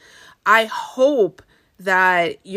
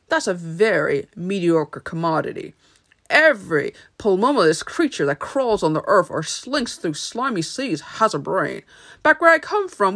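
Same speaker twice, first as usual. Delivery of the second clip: Wizard of Oz; 3 semitones higher than usual. Acted. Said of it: "the Wizard of Oz goes".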